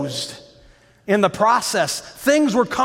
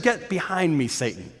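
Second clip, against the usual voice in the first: low stern rebuke; 3 semitones lower, 6 dB quieter than usual. Acted. Jesus rebukes Peter, quoted.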